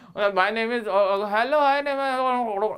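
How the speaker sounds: weak unsure mumble, trailing off; mumbled half-hearted. Shown as a demonstration. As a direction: stumble through like a nervous beginner. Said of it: "अरे क्या बोल गए?".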